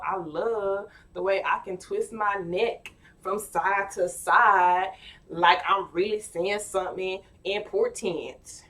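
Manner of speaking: slow, loud, proud neck-twisting sass; mock-grand brag with a neck roll; sassy self-love quote. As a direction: strut each word like it's important. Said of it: "It's like".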